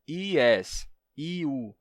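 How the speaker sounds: "Yes" and "iu" with vowel i onsets; vowel versions. Shown as a demonstration. Teacher repeating the wrong vowel forms. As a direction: give "Yes" and "iu" a full vowel i. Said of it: "Isso sim seria uma vogal".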